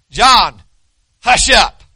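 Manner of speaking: a sharp parental hush, half-playful; mock stern hush. Elder telling weeping John to hush, mock stern. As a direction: shush him like a fussing child.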